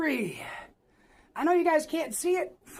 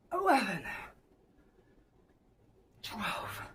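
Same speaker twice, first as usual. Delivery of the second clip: ordinary talk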